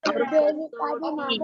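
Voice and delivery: teacher highlights कसोटी; careful कसोटी. Shown as a demonstration. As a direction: lift and stretch कसोटी. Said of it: "teaching pronunciation".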